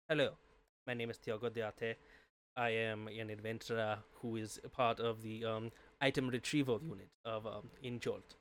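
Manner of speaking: light German accent, a heroic adventurer introducing himself; lightly put-on German accent, formal and earnest; Tiago's German accent. Shown as a demonstration. Demoing his adventurer character for a friend, light German accent. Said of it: "I went with a, a German accent".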